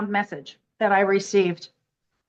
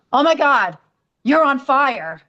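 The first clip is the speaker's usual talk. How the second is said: imitating an alarmed discovery, higher voice; retold gasp of astonishment; 4 semitones higher, 4 dB louder than usual. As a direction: exclaim it as a shocked friend, pitch up. Friend feels her burning feet, astonished.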